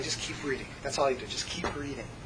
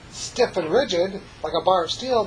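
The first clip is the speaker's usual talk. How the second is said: firm tone; 3 semitones higher, 4 dB louder than usual. Shown as a demonstration. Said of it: "that tone of voice".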